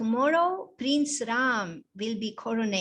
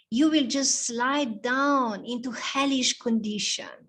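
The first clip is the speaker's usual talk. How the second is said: scheming maid; 2 semitones higher than usual. Acted. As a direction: press the queen hard, full of alarm. Scheming maid warns the queen.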